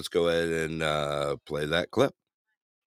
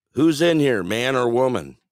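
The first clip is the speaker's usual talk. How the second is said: raised mock yell, higher and louder; retold yell; 5 semitones higher, 6 dB louder than usual. Man outside a restroom door, a mock yell. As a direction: yell it through a bathroom door. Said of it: "knocked on the door and yelled in there".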